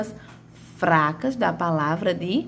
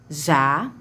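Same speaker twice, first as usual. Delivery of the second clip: "Já" on its own, lower and held; isolated syllable; 5 semitones lower than usual. Shown as a demonstration. Teacher counting off the first syllable, deliberately isolated. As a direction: set "Já" apart as a separate syllable. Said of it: "primeira sílaba".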